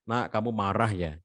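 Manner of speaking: soft, gentle parent asking; name the child's anger kindly; acknowledging softly. Shown as a demonstration. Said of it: "Itu namanya mengakui ya".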